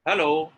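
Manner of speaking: high, loud HELLO; intonation demo. Shown as a demonstration. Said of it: "Do you think the meaning is changing?".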